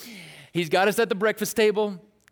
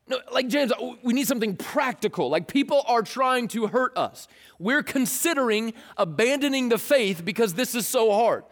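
higher exasperated pushback; whiny protest; 4 semitones higher than usual. Pretend. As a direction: argue back, fed up. Believers argue with James.

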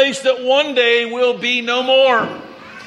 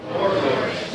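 "More glorious" repeated much softer and lower; quiet echo; 7 semitones lower, 6 dB quieter than usual. Shown as a demonstration. Preacher softly repeats the congregation's answer. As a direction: murmur the echo under your breath. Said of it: "Everybody say".

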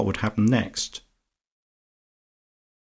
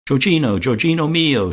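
high, lilting Italian endearment called out; calling out; 8 semitones higher, 4 dB louder than usual. A narrator's reading. Lucia hails Georgie from her garden, calling out high. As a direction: sing it out louder, pitched well up. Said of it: "she cried".

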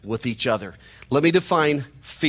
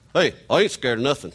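hillbilly twang; faster than usual. Retold or imitated. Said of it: "I can lapse back into that".

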